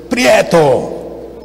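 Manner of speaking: sharp drawn-out call of a name; stern call. Retold or imitated. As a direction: imitate an angry man calling a boy out. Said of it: "y era bravo".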